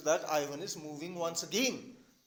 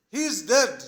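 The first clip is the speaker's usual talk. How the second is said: loud, mildly raised cry; acted shouting; 3 semitones higher, 6 dB louder than usual. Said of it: "Natalia still shouting".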